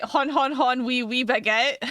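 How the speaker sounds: silly French caricature; mock French accent. Streamer guessing at another French meme, mock French accent. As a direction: do a cartoon French hon-hon laugh and accent. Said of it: "I got another French meme".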